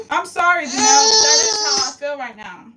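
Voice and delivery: high, loud, tearful voice; sobbing out an apology; crying apology. Real, not acted.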